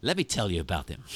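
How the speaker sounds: lightly hyped youth pastor pitch; a hint of an eager youth pastor. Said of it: "He'd be like a youth pastor".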